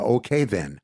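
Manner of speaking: imitated Fargo accent with rounded O in "Okay". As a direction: quote it like a Fargo character. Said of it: "In, in Fargo".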